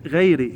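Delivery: غيري as "ghayri"; careful model, غيري with kasra; kasra ending. Shown as a demonstration. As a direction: end غيري on "i". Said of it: "هي غيري بالكسرة".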